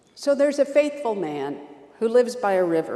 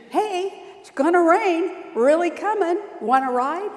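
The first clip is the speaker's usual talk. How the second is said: high and much louder call over the water; speedboat driver shouting; 8 semitones higher, 6 dB louder than usual. Acted. Speedboat driver calls to the faithful man, shouting. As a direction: hail the man from the boat. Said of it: "The speedboat says".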